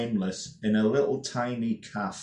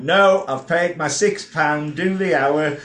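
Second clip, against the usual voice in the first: louder, slow, insisting punter; stubborn heckler; 3 semitones higher, 7 dB louder than usual. Retold or imitated. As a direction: dig in and demand your money's worth. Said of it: "And the Scotsman in the front row went".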